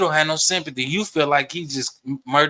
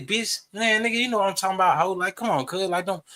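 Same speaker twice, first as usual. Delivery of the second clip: a light, higher-pitched imitation of Dallas slang; Dallas talk; 5 semitones higher than usual. A hint of Dallas slang, talking to his partner. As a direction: toss it off the way friends in Dallas talk. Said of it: "this is how we talk".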